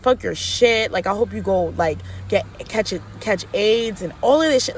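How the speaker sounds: string of curses, mildly heated; retold going off. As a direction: retell yourself cussing someone out, without shouting. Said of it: "Like, I was going off".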